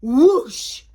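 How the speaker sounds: loud whooshing exclamation; storybook flight effect; sound-effect word. A narrator's reading. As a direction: send the word flying with force. Sound of pumpkin flying off.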